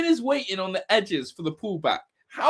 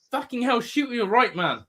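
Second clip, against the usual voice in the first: frustrated yell; 5 semitones higher than usual. Real, not acted. Yelling at striker during attack.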